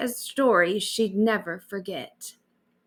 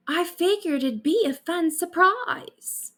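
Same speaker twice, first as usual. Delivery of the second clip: high, breezy cheeky excuse; 9 semitones higher than usual. Acted. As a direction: shrug it off playfully.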